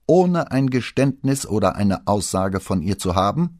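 loud, high-pitched outraged question; flaring up. A narrator's reading. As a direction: explode in indignation at a subordinate. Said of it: "fuhr Pater auf".

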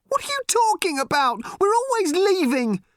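put-on high, loud girl's yell; a desperate teen girl crying out; furious teenage girl. A narrator's reading. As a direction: hurl it back at her mother. Random yells at her mother.

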